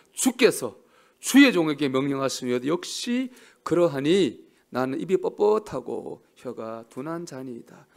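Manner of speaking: loud, slow, solemn Bible reading; scripture reading. Acted. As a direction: proclaim the verse slowly. Reads scripture aloud.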